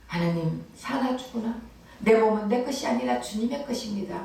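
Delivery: 낮고 조용하게 시작하는 경건한 고백; 하나님께 속삭이듯 고백하는 신자; 간절한 기도 흉내. Retold or imitated. 설교자가 신자의 기도를 흉내냄. (신자가 하나님께 드리는 고백, 조용하고 간절하게)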